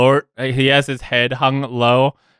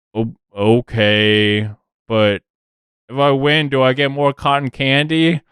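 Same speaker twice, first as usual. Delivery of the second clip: hesitant orc; 3 semitones higher than usual. Acted. GM voices Strog hesitant.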